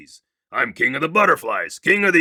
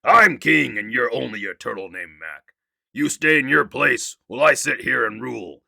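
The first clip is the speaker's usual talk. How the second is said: louder, proud king declaring; thundering royal voice; 2 semitones higher, 5 dB louder than usual. Acted. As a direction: boom out your rule over everyone. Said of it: "his royal voice thundered".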